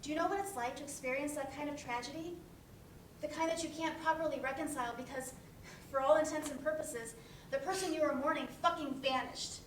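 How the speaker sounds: anguished outburst. Acted. Angry grief outburst, swearing.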